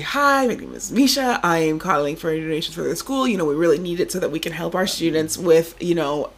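lightly voiced donation pitch; a student caller pitching a parent for donations; call-center spiel. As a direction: recite the fundraising script. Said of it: "give me a spiel".

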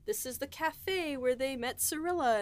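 high-pitched retold sightseeing thrill; excited fan gushing. Fan retelling York honeymoon to co-hosts, excitedly spotting story places. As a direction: point out the landmark with lifted, delighted pitch.

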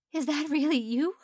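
high, loud squeaky disbelief. A narrator's reading. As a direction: voice cracks into a squeak. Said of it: "Her voice squeaked once".

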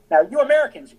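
a burst of mock lecturing; emphatic retold lecture. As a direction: call out the Americans like a stern lecturer. Historian lecturing Americans, retold.

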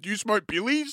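put-on cheeky Aussie kid asking again; aussie eshay slang. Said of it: "That's what they said".

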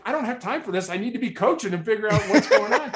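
high, half-laughing exasperation; a coach amused by her own impatience; laughing frustration. Retold or imitated. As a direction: vent with a chuckle. Frustrated coach mid game.

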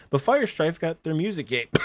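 coughing through the words; coughing fit. Real, not acted. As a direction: voice catching on a cough. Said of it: "I'm sorry, I'm coughing so much".

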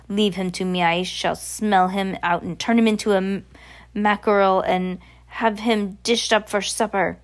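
put-on lightly accented witch villain; menacing witch. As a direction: announce the plan as a scheming witch. Voices the Grand High Witch.

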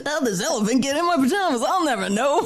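laughing. Real, not acted. Silly quote while laughing.

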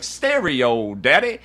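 hint of a hammed-up pimp, lifting on "daddy"; stereotyped pimp. Host mocking the film's stereotypes, lightly voiced pimp. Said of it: "What about the black pimp?".

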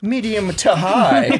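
repeating it through a laugh. Real, not acted. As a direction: laugh out the words.

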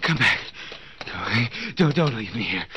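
tied up, begging the burglars to come back; desperate plea. Acted. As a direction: beg them to come back. Tied man pleading with burglars.

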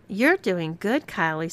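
smiling encouragement. Acted. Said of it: "smiled Amanda".

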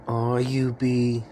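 slow, drawn-out imitation of an aunt; aunt's pet-name call. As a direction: draw the nickname out like an aunt. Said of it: "my aunt calls me Youpie".

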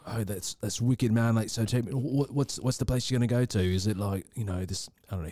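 lightly imitated British bloke; a hint of British accent on the retold chat; English accent. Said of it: "do your best English accent".

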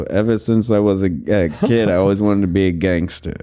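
low Ray Liotta narration; Goodfellas gangster voice. Retold or imitated. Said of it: "Can you do Goodfellas".

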